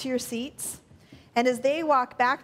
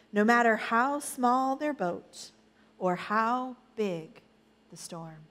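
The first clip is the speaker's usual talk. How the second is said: measured picture-book ending with pauses; storytelling to children. A narrator's reading. Reads Bible story to children.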